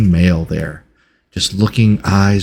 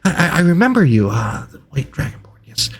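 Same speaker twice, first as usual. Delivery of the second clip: higher-pitched, stammering scholar; curious, hesitant researcher; 8 semitones higher than usual. Acted. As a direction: pose a halting, fascinated question in a raised voice. Game master voices Reginald.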